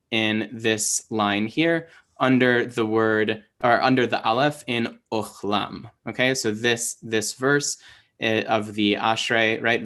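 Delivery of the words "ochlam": Ochlam with O first, ah second; demonstrated pronunciation. Shown as a demonstration. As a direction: say "Ochlam" with an O in "Och" and ah in "lam". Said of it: "kamatz that makes an O sound".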